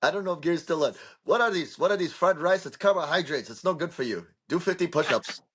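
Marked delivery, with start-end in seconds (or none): 1.2-5.4 put-on high-pitched, scolding old golfer's voice; Gary Player impression. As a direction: play the health-nut golfer, pitched up and disapproving. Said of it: "really good Gary Player impression".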